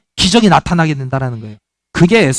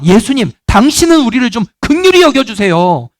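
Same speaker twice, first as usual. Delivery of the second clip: pleading cry; 3 semitones higher than usual. Retold or imitated. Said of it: "이렇게 외쳤던 거예요".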